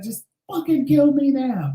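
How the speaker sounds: high, slow hammed-up death wish; dramatic plea. Patient at dialysis, high slow hammed-up despair. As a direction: overplay the despair, long and high. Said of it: "I was being dramatic".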